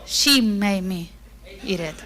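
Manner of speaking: slow, sulky blame-shifting whine; Adam blaming God and Eve, passive aggressive. Acted. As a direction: pin the blame on God with mock innocence. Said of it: "Passive aggressively saying".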